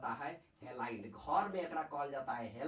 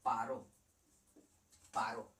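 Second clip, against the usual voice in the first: affectionate nickname; 7 semitones lower than usual. Shown as a demonstration. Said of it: "प्यार से क्या बोले".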